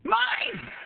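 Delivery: very high, sudden shout; proud yell. Acted. Frog yelling to the farmer for credit, proud yell. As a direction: burst out claiming the credit. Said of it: "Because when he yelled".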